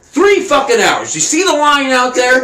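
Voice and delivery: mock-panicked Cinderella urging the horse on; frantic hurry. Cinderella rushing to the palace.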